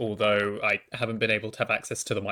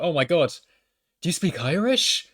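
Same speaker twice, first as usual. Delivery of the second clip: higher-pitched retold excitement; amazed professor; 6 semitones higher, 4 dB louder than usual. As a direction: imitate a professor's eager surprise. Acting out professor's amazed reaction.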